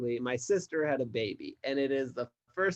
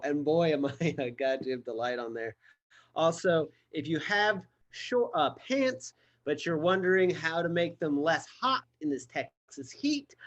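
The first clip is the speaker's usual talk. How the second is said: ordinary talk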